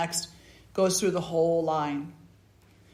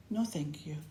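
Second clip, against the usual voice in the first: soft whispered no thanks; the beggar turns down the kingdom, whispered; whispered refusal; 7 dB quieter than usual. Acted. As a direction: decline it in a whisper.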